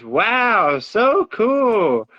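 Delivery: put-on high, delighted kid voice; child's amazement. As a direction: gush like an amazed little girl. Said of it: "She goes".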